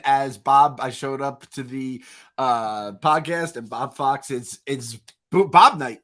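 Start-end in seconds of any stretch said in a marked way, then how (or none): 5.3-6.0 excited shout. Real, not acted. Announcing Bob's costume with glee.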